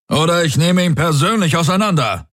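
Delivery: high, barked command; barked order. A narrator's reading. Commander barking orders over the comm. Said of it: "bellte Daraios in sein Komm".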